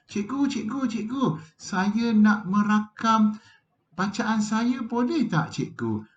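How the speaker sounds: put-on high, pleading child's voice; be a keen pupil begging teacher; eager child. Pupil asking teacher to record reading, high and eager.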